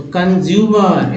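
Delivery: कंज्यूमर slowly, part by part; teacher's slow model of कंज्यूमर; word sounded out. Shown as a demonstration. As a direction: stretch out कंज्यूमर as kan-zyu-mar. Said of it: "इसको क्या बोल रहे हैं".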